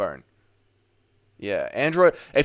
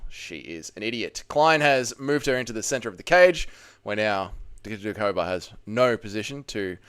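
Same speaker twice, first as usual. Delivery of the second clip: measured fight commentary, punching key words; live play-by-play; 3 semitones lower than usual. Pretend. Streamer commentating the fight for a viewer, play-by-play. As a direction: call the grappling like a ringside commentator.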